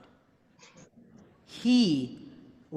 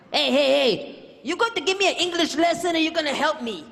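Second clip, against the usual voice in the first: louder, higher and faster irritated retort; impatient young man; 9 semitones higher, 7 dB louder than usual. Retold or imitated. Stranger annoyed at the correction, loud impatient retort. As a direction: snap back, fed up. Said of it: "man gets impatient".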